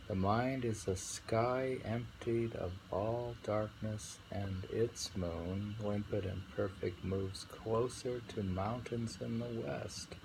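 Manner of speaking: slow, thoughtful recital; poem reading. Acted. Rereads the poem.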